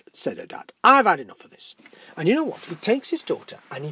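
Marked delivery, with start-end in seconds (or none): 0.8-1.8 loud, fed-up father; angry dad. Acted. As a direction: snap at the daughter.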